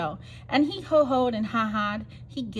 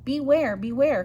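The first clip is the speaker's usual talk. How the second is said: calling out; 3 semitones higher, 4 dB louder than usual. Acted. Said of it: "called the bees to the bear".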